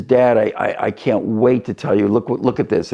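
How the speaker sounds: lightly voiced eager boy bursting to share news; mild, stumbling excitement; an eager retelling of an excited son. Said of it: "and he's excited".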